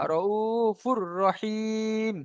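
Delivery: "র উ ফুর রহিম" slowly, closing on a long "him"; stopped ending. Shown as a demonstration. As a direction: hold the i of "রহিম" and stop on m. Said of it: "রহিম বলে ছেড়ে দিলাম".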